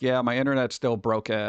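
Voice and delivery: low creaky fry; vocal fry. Pretend. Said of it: "Like I'm doing vocal fry".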